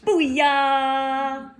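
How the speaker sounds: a bright, high, shouted squawk of a call; loud bird cry. Acted. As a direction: belt it like a cocky bird. Bird cries its name.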